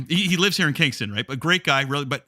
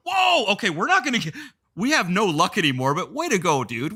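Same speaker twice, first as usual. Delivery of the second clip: hoch und aufgeregt, halb lachend; excited whoa; 4 semitones higher than usual. Retold or imitated. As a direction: ein begeistertes, ungläubiges Whoa. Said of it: "I was right there going".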